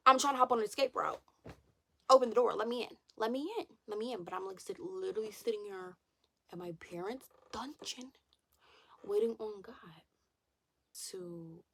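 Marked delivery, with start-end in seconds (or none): 0.1-4.2 louder, higher plea to be let in; pleading. Real, not acted. Vlogger begging God for an escape route, pleading. 6.5-11.6 whispered aside. Real, not acted. Vlogger confiding she waits at her parents', whispered. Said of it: "whispered aside".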